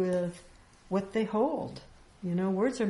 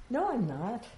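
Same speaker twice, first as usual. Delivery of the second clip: higher, quick "no, I'm not" reflex; quick denial; 5 semitones higher than usual. Shown as a demonstration. Teacher acting the listener refusing the claim. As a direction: blurt the denial. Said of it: "But if I say".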